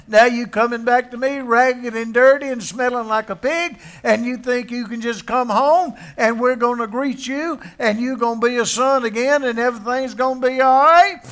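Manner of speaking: preacher plays the father who would cuss out his son, scolding loudly; mock cussing out. Father that never was, berating the ragged son, mock angry. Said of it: "cuss him and say".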